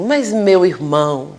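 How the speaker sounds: slow, dreamy, a touch lofty; lightly imitated poet getting carried away; ethereal poet. Poet counselor speaking loftily to a confused spirit, slow and dreamy. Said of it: "começou a falar coisas tão etéreas".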